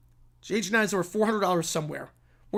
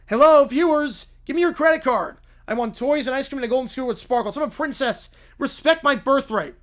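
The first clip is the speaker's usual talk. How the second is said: spoiled princess; 3 semitones higher than usual. Acted. Princess ordering her viewers to pay up, bratty. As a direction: demand it like a spoiled royal. Princess demands credit cards.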